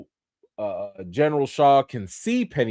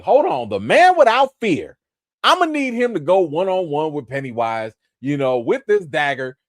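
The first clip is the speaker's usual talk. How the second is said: hyped fan; 3 semitones higher, 4 dB louder than usual. Retold or imitated. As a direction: pump it up like a fan waiting for this. Retelling own hyped reaction.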